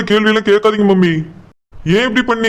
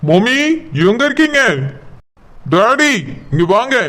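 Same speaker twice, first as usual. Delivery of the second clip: calling out angrily; 2 semitones higher than usual. Acted. Angry son storming home calls for his parents. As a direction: call for your parents, upset and demanding. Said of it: "எதுக்கு இப்படி கத்திட்டு வந்து நிக்க".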